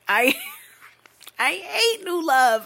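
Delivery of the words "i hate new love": laughing. Real, not acted.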